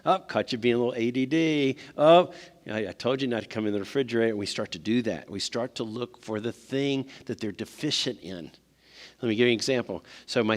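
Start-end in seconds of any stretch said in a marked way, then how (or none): 0.0-4.3 mock gotcha parent. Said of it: "We're like".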